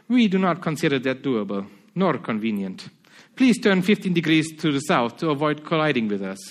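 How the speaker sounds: firmer put-on Spanish accent; Spanish operator repeating his warning, lightly accented. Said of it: "try to put on a Spanish accent".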